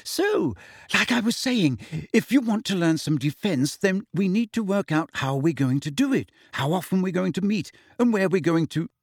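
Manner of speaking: put-on high, nervous girl's voice; very high-pitched. A narrator's reading. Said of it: "her voice very high-pitched again".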